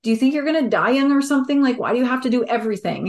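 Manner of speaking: quick mock-mom nagging; mom's question. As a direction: rattle it off like a worried mother. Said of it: "my mom asking me".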